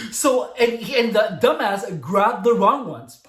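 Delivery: words pushed out loud through laughter, slowly; laughing while talking. Real, not acted. Telling how the customer fell for it and laughing. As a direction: keep laughing as you tell it.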